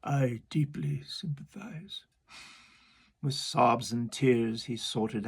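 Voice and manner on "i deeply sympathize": whispered walrus. Acted. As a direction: fake sympathy, whispered. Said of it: "the walrus said".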